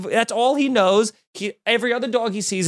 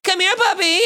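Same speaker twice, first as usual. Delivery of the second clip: much higher, sing-song call to a puppy; mock owner calling; 3 dB louder than usual. Mocking a dog owner calling his dog mid-fight, high sing-song. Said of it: "hear you going".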